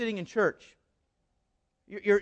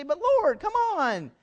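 whiny protesting churchgoer; 2 semitones higher than usual. Retold or imitated. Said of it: "I'll speak on your behalf".

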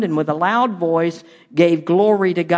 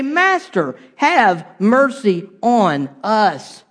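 lepers calling out; 3 semitones higher, much slower than usual. Retold or imitated. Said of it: "they call out to him".

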